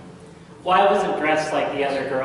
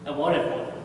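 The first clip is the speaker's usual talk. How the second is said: quiet echo; 2 semitones lower, 6 dB quieter than usual. Acted. Echo of the line, dropped away.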